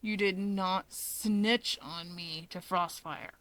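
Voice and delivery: villain groaning at his brother; slow groaning Dabi. Acted. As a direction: drag it out in dismay.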